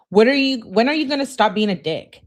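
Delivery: high, loud exasperated outburst; mock angry yell. Girlfriend scolding ignoring boyfriend, mock yelling. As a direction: snap at him, fed up. Reading her angry text.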